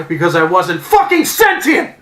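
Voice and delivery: slow, loud exasperated outburst; angry rant. Real, not acted. Angry fan ranting about never seeing a win. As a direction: spit the words out slowly.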